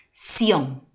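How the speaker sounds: "Sion" isolated and firmly stressed; a lone, emphatic "Sion"; stressed syllable alone. Shown as a demonstration. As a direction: set "Sion" apart as one strong syllable. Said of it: "la mayor fuerza de voz está en la última sílaba".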